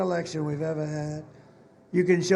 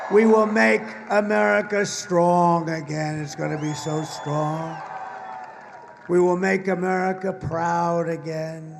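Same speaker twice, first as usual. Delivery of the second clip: shouted slogans. Real, not acted. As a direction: hammer each slogan home. Closing slogan chant.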